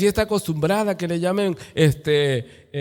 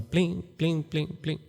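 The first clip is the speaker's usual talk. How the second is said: garbage truck bell; 7 dB quieter, much slower than usual. Retold or imitated. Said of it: "como el de la camión de la basura".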